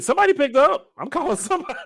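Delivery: high, loud panicked surprise; startled. Real, not acted. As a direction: caught off guard, squeals it. Panics as the phone is answered.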